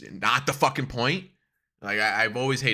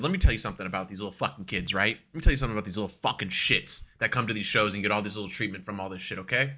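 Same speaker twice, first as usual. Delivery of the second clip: retold rant; 5 semitones lower, 3 dB quieter, faster than usual. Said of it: "I said".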